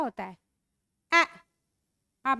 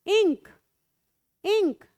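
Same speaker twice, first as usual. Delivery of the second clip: "इंक" higher and louder; clear loud; 5 semitones higher, 6 dB louder, slower than usual. Shown as a demonstration. Teacher sounding out "ink" for the class, louder. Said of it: "से ई".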